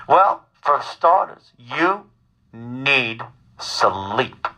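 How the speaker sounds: slow, measured mother impression; calmly insistent mother. Son imitates his worried mother, calmly insistent. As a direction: stretch each word out like a patient, insistent mother. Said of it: "my mother is very calmly telling me".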